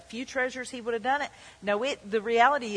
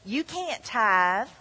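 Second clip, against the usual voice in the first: stranger's voice; 2 semitones higher than usual. Retold or imitated. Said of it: "That's the voice of a stranger".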